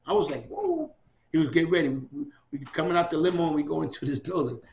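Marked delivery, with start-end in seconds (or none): 0.5-0.9 high, stunned whoa; amazed whoa. Retold or imitated. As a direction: gasp it out in awe. Amazed at the huge crowd.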